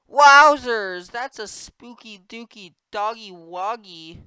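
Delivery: squealing cartoon excitement; excited high voice. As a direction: gush in a high silly voice.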